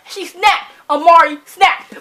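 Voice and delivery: loud, slow thrilled exclaim; excited praise. Real, not acted. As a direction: hype up the character. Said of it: "excited reaction".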